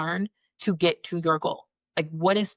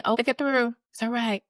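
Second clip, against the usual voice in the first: higher, breezy mock reassurance; glib advice; 5 semitones higher than usual. Friends advising her through divorce, lightly mocked. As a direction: toss off hollow comfort.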